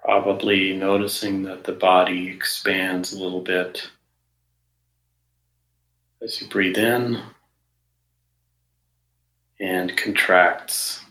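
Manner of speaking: measured meditation guidance with long pauses between phrases; guided meditation. Real, not acted. Meditation teacher settling listeners into the body, guided meditation. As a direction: guide listeners unhurriedly, leaving silence after each phrase.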